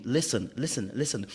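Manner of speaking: understated, calm repeated prompts; calm urging. Acted. Telling a friend who keeps ignoring you, calmly. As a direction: repeat it evenly, without raising the voice. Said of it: "I've been telling you calmly".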